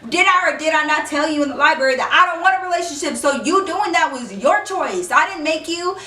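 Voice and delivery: high, fast and combative; heated retort. Retold or imitated. Girl arguing with Jake in the street, high heated retort. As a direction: throw it right back at him.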